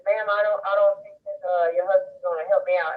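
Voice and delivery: put-on hint at an older man's Louisiana accent. Moving man reports back about her husband, light Louisiana accent. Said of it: "he says in his Louisiana accent".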